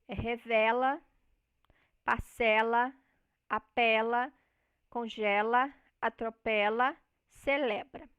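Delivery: revela, parcela, apela with an open e, each word set apart. Shown as a demonstration. Teacher demonstrating the open e vowel for the class. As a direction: stress the open e in revela and congela. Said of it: "nós temos o E aberto".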